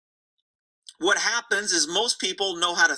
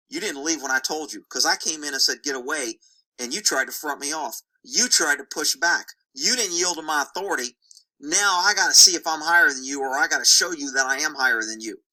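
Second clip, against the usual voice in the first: lower-pitched horse asserting authority; lightly voiced dominant horse; 6 semitones lower than usual. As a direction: lay down the rank, low and measured. Voicing a dominant horse's challenge.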